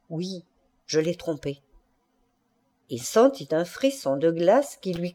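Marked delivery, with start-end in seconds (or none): 0.1-1.6 very soft murmured confession. A narrator's reading. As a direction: murmur it low, close to his ear. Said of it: "elle murmura". (murmuré tout bas)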